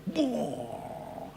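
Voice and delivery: long falling "boo" fading away; drawn-out whoosh of water; imitated wave crash. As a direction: mimic a big wave breaking, trailing off.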